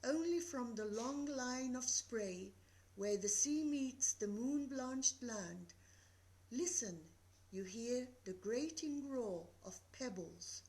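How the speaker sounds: calm, measured reading of Dover Beach; poem recital. Acted. Teacher reading Dover Beach to the class, calm recital. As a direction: read it like the night sea, steady.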